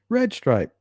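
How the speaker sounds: high-pitched mock Jamaican accent; playful Jamaican accent. Shown as a demonstration. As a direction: put on a Jamaican lilt, pitched well up. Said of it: "Jamaican accent. Say beer".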